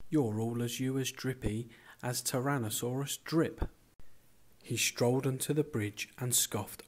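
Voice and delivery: put-on measured storytelling for children, pausing between verses; story narration. A narrator's reading. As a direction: read a rhyming picture book aloud. Reads a rhyming picture book.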